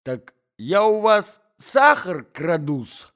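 громкая обиженная отповедь, выше и громче; наступай на соперницу с обидой; сердитая отповедь. Acted. Ссора двух дам. (взбешённая дама кричит на Марью Александровну)

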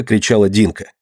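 ordinary delivery, nothing marked

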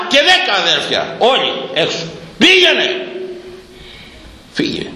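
mother and brothers throwing out the bride, high mock scorn; mock family driving her out. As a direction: act the family chasing the bride off.

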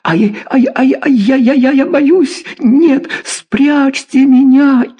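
very high, stammering in panic; high panicked stammering cry; hysterical terror. A narrator's reading. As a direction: wail and stutter out of sheer fright.

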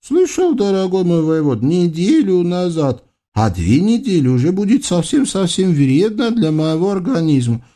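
high, fussy ruler's voice; spoiled sultan. Acted. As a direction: babble orders like a pampered tyrant. Sultan gives orders.

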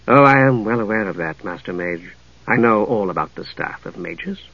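lightly voiced lady, low and soft, knowing; self-possessed fishmonger woman. Fishmonger answering the young mage's assurance, quietly knowing.

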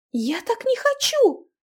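frightened plea. Acted. Girl pleads.

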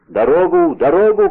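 high, loud demand; shouting. A narrator's reading. Gang leader two steps from the door, shouting. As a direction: raise the voice to force a way through. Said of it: "кричал Менвиль".

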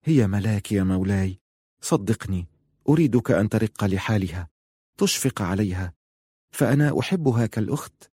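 with pity. Acted. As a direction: plead gently for her sister. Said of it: "قالت في شفقة".

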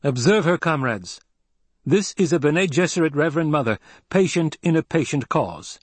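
high, forceful public proclamation, slowing at the end. A narrator's reading. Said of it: "Paul raised his voice".

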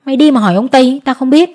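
a touch of an official's bark; understated angry retort; mild shout. Acted. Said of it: "Lý trưởng quát".

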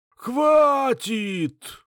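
high, loud, hoarse rattling cry; hoarse old man's shout. A narrator's reading. Old patriarch shouting hoarsely at his son. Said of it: "кричать старик хриплым дребезжащим голосом".

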